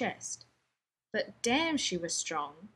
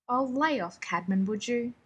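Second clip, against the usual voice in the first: snapped; 2 semitones higher, 3 dB louder than usual. Acted. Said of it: "he snapped".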